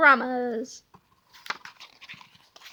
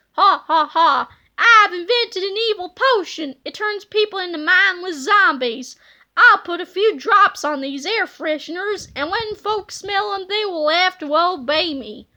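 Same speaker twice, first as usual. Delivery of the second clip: villain voice. Acted. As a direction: cackle and brag. Villain Petey gloats.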